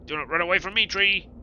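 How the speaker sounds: high, loud shout after a fleeing tree. Acted. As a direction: yell at the running tree. Chasing tree, calling out.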